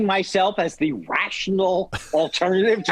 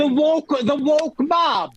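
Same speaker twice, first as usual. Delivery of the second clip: mock outrage; 6 semitones higher, slower than usual.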